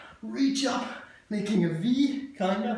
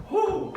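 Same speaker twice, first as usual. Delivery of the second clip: winded whew; 11 semitones higher than usual. Real, not acted. Winded exhale mid workout.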